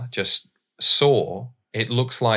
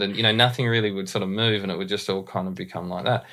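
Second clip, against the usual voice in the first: lazy Tasmanian Aussie accent with little jaw movement; broad Tassie accent. Shown as a demonstration. Voice coach demonstrating his old Tasmanian accent, broad Aussie. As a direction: slip into the old broad Tassie voice, mouth barely moving. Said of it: "you're getting me to do my sort of Tassie voice here".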